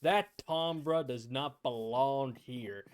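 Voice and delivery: loud folksy drawl, slowing at the end; country guy voice. Retold or imitated. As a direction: play a country stranger, slowed down. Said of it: "It's just like".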